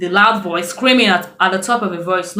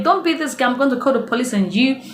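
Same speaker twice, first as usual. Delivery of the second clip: higher stern warning; mock warning; 4 semitones higher, faster than usual. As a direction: warn her off, pitched up. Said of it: "They were like".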